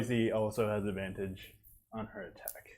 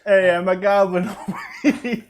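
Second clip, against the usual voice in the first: goblin voice; 7 semitones higher, 11 dB louder than usual. Acted. Goblin character calling out.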